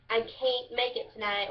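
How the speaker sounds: Kentucky "can't" said as "cain't"; Kentucky dialect. Shown as a demonstration. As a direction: say "can't" to rhyme with paint, Kentucky style. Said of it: "you would say".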